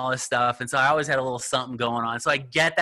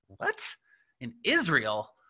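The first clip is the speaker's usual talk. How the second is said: surprised; slower than usual. Retold or imitated. Disbelief at partner being in Israel.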